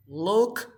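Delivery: "looked" drawn out with a separate final T. Shown as a demonstration. Teacher showing the past ending, slow "looked" ending in T. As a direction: end "looked" on a crisp voiceless T. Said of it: "you pronounce this like T".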